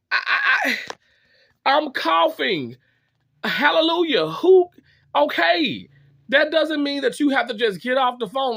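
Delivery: high, loud disbelieving rant; worked-up venting about dad; exasperated rant. Real, not acted. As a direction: let the frustration spill over, voice up high.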